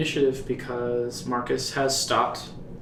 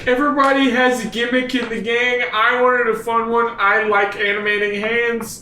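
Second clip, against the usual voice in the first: whiny villain; 6 semitones higher than usual. Acted. NPC whines about his gimmick.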